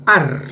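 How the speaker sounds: "ar" drawn out as the stressed syllable. Shown as a demonstration. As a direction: lean on "ar" and hold it. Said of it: "la fuerza de voz está".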